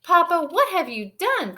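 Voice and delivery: high, loud alarmed cry; Mama sees the bubble-filled bathroom, shocked. Acted. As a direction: gasp it out in dismay. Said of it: "cried Mama".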